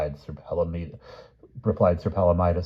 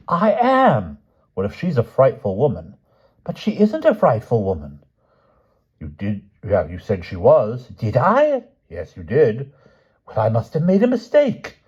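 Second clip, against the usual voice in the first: higher, louder voiced quarrel of two old knights; knights bickering; 6 semitones higher, 8 dB louder than usual. Grumor and the king argue over the letter, higher and loud. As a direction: bluster back and forth.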